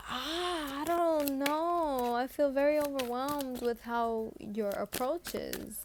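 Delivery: slow, hesitant, drawn out; hammed-up hesitation, pulling back; mock overwhelmed Virgo. Reader voicing an overwhelmed Virgo, slow and hesitant. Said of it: "And you're just like".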